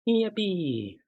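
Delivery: high, bright yippee; excited cheer. Real, not acted. Cheering after mic test.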